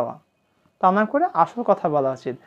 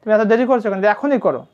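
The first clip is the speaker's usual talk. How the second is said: a hint of an impatient father, raised voice; urging father; 3 semitones higher, 4 dB louder than usual. Father asking child why the delay, lightly acted urging. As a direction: lightly act a parent chivvying a child. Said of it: "অথবা পিতা বলছে".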